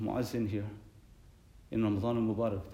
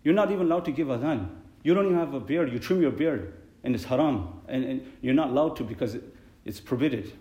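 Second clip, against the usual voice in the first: raised, pointed scolding voice; mock angry rebuke; 3 dB louder than usual. Muazzin scolding another for trimming his beard, raised angry voice. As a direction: scold him like a rival muazzin. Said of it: "that one person said to the other".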